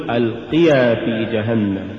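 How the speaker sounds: ألقيا as one unbroken word; correctly joined word. Shown as a demonstration. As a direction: keep يا attached inside ألقيا. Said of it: "قل". (نطق «ألقيا» كلمة واحدة)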